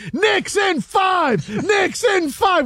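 high, drawn-out sports chant; retold yelling. Fan yelling at passing boats, high celebratory yell. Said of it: "and I'm yelling".

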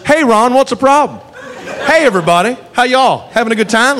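jaunty, folksy southern cop greeting the bar; breezy good-old-boy cheer; lightly voiced jovial southern cop. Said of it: "looks at the bartender and goes".

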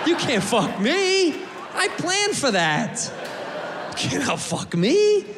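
high, slow defiant yell; drawn-out triumphant yell. Pretend. Tourist boasting to the waiter, slow high yell.

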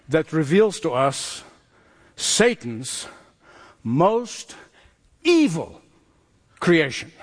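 "Satan's... most... evil... creation", a pause after each word; dramatic reveal. Real, not acted. Preacher reveals the chapter's villain to the congregation, dramatic pauses.

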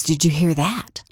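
a tense whisper asking if they heard; whispered question. Retold or imitated. Listening for the missing man in the woods, whispered. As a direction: breathe it, straining to listen.

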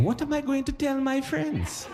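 high, soft fretting voice; a panicked little inner voice; mock worried thought. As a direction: Bob worrying on the toilet, high and soft. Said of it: "'Cause he was thinking".

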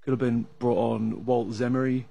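ordinary talk

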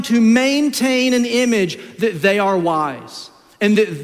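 high, slow, emphatic pulpit cry; impassioned preacher, slow and soaring; preaching at full force. Acted. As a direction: hammer it home to the congregation.

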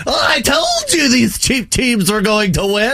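high, slow cartoon gloating shout; Candy King voice. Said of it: "sounded like the guy from, uh, Wreck-It Ralph".

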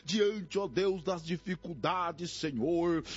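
impassioned, pleading prayer in rolling phrases; fervent prayer. Real, not acted. Pastor interceding with God for despairing, grieving, oppressed people, fervent prayer. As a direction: cry out to God, drawing out key words.

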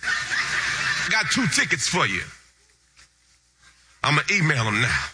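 slow, drawn out with a laugh; savoring the words. Retold or imitated. Preacher savoring the pastor's offer, slow and laughing. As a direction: linger on each word like good news from heaven. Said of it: "I heard a voice crying out in the wilderness".

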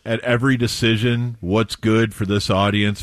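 a hint of a politician's speech; mock campaign speech; acceptance speech. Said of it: "quite an acceptance speech".

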